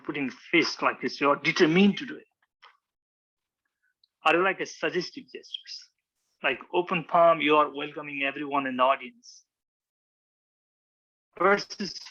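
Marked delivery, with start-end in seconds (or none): none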